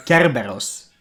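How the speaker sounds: Kerberos in a Greek accent, hard K. Shown as a demonstration. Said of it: "in my good Greek accent".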